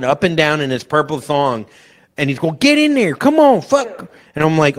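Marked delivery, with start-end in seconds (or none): 2.6-4.1 high, loud mock yell at the boys. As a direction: bark it like a pushy host. Wayne yelling at guys.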